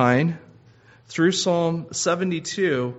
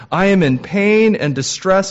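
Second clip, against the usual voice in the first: higher, louder cry of pain; anguished plea; 6 semitones higher, 6 dB louder than usual. Acted. Preacher quoting David's cry of pain, anguished and raised. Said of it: "he says".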